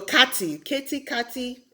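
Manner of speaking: Katy alternating "KAH-tee" and "KEH-tee"; guessed pronunciations. Shown as a demonstration. Newcomer unsure of the city's name, Katy as "kah-tee, keh-tee". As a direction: try Katy both ways with crisp T. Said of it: "I don't know".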